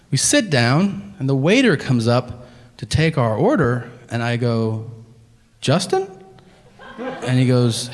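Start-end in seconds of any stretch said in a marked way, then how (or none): 5.6-6.1 sudden high "Justin?"; shocked recognition. Retold or imitated. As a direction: blurt his name in disbelief. Recognizes the waiter from his ID.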